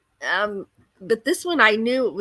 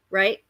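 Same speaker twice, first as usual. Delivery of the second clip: mist hiss. Shown as a demonstration. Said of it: "impression of a waterfall".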